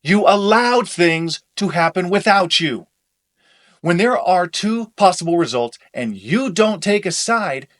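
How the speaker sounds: loud, heated; angry shouting. Acted. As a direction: hammer each point in anger.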